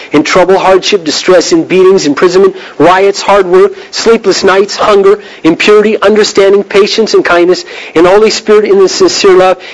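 brisk, rhythmic Bible reading; scripture reading. Acted. Preacher reading Second Corinthians to the congregation, brisk scripture reading. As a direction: read out the list in a steady, driving run.

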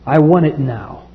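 lightly voiced greedy boy; demanding son. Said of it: "younger one said to his father".

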